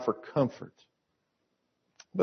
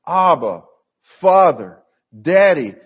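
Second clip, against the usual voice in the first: loud, separated calls to a father; demonstrated cry to God, louder on each name; 3 semitones higher, 6 dB louder than usual. Shown as a demonstration. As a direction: call out each name firmly, raised voice. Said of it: "we cry out".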